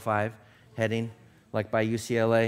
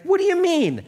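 exploding in anger; 12 semitones higher, 8 dB louder than usual. A narrator's reading. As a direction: blow up at the pilot. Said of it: "this time the photographer exploded".

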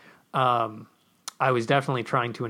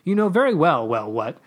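mock indignant; 3 semitones higher, 4 dB louder than usual. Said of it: "I tutted".

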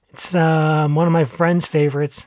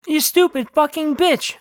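higher-pitched, contained yell; mild shout; 11 semitones higher than usual. A narrator's reading. Owner at his barking dog, mild shout. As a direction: scold the dog without full volume. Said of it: "I shouted".

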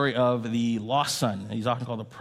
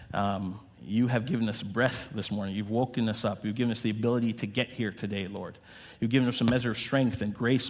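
prayer. Acted. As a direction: pray earnestly over the room. Pastor prays for the congregation.

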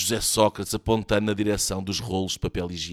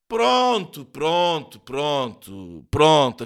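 soothing; 4 semitones higher, 4 dB louder, much slower than usual. A narrator's reading. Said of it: "acalmou Soares".

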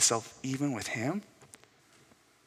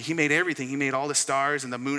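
put-on excited young son; 3 semitones higher, 6 dB louder than usual. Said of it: "This is now Liam talking".

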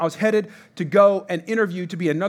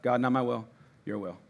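low, soft surrender; quiet prayer; 9 semitones lower, 8 dB quieter than usual. Shown as a demonstration. Pastor showing the morning prayer, hushed. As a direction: murmur it as a real prayer. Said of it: "I get up".

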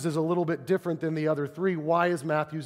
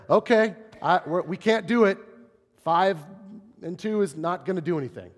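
despairing; 3 semitones higher, 3 dB louder than usual. Retold or imitated. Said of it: "which is despair".

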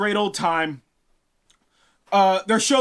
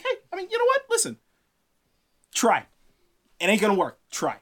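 taunting giant; faster than usual. Acted. Giant king taunting Thor.

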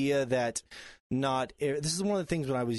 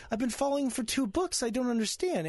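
bewildered fan; 11 semitones higher than usual. Retold or imitated. Fan confused by sudden death.

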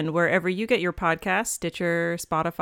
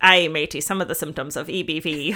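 put-on pirate accent; 4 semitones lower than usual. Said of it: "Speaking pirate".

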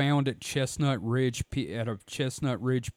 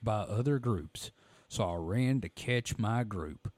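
Phantoms and Monsters voice. Acted. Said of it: "my Phantoms and Monsters voice".

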